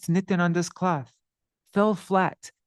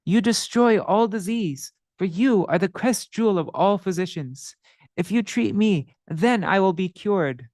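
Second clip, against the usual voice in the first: pleading sinner; 3 semitones higher than usual. Acted. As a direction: beg for mercy, voice lifted. Madhai pleads.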